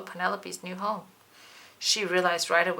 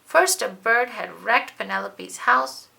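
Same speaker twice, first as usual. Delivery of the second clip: louder, dramatic recap of her bad luck; building dismay; 4 semitones higher, 8 dB louder than usual. A narrator's reading. Narrator lists the bug's troubles with growing drama. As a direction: pile up the misfortunes with rising alarm. Climax of misfortunes.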